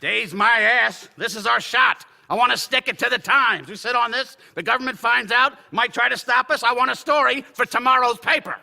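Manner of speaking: impatient boss demanding the story; forceful insistence. Acted. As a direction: push the team hard. Editor insists on deadline.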